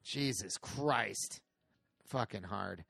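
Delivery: slow, soft, deflated mutter; trailing off. Real, not acted. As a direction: let it fade out in defeat. Dying to a hard section.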